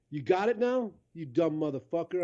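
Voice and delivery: rough local guy. Retold or imitated. Local scolding lost driver.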